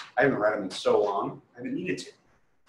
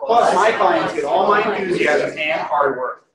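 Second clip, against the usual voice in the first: higher and louder, bright and pushing; full enthusiasm; 6 semitones higher, 4 dB louder than usual. Shown as a demonstration. Agent reads the script with maximum enthusiasm. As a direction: pour all your enthusiasm into the pitch. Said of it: "With as much enthusiasm".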